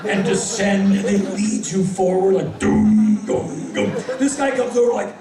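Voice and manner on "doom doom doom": loud, drawn-out comic "doom"; mimed lumbering swagger. Retold or imitated. Comic mimicking a swaggering alpha walk, booming sound effect. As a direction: boom out each step like a lumbering alpha.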